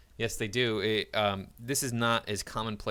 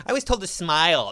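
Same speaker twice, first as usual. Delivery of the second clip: mock outrage; 6 semitones higher, 8 dB louder than usual. Mocking a feminist complaint.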